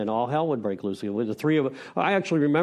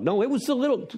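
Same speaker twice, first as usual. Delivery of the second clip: wife's line jumped much higher and louder; mock wife; 13 semitones higher, 4 dB louder than usual. Wife protests to husband who denies roaches, much higher and louder. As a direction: squeal it up as the exasperated wife. Acted quarrel, wife's side.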